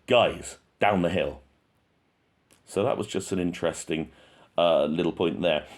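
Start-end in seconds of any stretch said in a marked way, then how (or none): 0.1-1.4 firm, insistent command; assertive order. Retold or imitated. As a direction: repeat the order more sternly. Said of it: "when they didn't comply".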